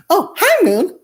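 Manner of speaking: very high, bright squeal of hello; sudden high-pitched delighted hi; excited greeting. Real, not acted. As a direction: gush over the little one. Greeting the goddaughter.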